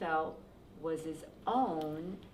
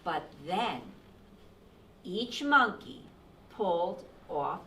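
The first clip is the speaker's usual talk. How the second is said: measured read-aloud with deliberate pauses; storytime narration; 8 dB louder than usual. A narrator's reading. Reading the cap peddler's tale to children, expressive storytime voice. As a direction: tell the story to young listeners.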